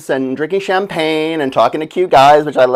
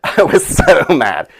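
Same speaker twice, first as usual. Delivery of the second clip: slow, laughing through the words; giggling repeat; slower than usual. Real, not acted. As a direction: crack up while saying it.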